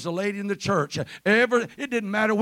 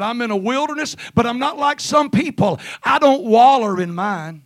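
preacher's raised, forceful declaration; emphatic preaching; 6 semitones higher, 7 dB louder than usual. Real, not acted. Preacher voicing David in the wilderness, emphatic preaching. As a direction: proclaim it defiantly to the congregation.

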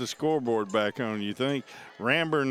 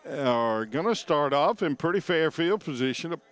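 with hiccups; 2 semitones higher, 3 dB louder than usual. Real, not acted. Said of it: "Sorry, I got the hiccups".

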